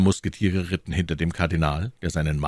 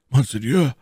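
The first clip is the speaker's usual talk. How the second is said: proud address, slightly raised voice; 8 semitones higher, 4 dB louder than usual. A narrator's reading. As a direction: address him with dignity. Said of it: "sprach Athos stolz".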